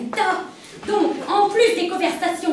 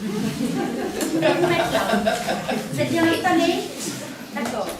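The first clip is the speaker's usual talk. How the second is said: sensual voice; 4 dB quieter, slower than usual. Acted. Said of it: "la même voix qu'au téléphone".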